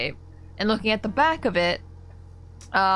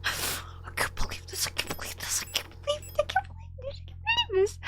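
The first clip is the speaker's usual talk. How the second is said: laughing disbelief; 9 dB quieter, faster than usual. Real, not acted.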